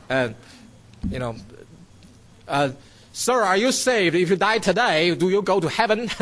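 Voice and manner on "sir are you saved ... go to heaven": put-on light Australian accent, raised pitch at the start. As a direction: mimic an Australian street preacher, lightly. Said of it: "how do you say in that Australian accent? Something like that".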